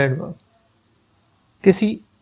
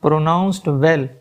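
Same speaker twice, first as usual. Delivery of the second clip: very slow and drawn out; slow dictation; much slower than usual. Shown as a demonstration. Teacher repeating part of the sentence for students, very slow. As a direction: stretch it out for the class. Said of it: "teacher repeats example words".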